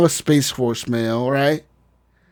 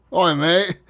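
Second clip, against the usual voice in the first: mock British accent; 3 semitones higher than usual. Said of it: "He has a British accent now".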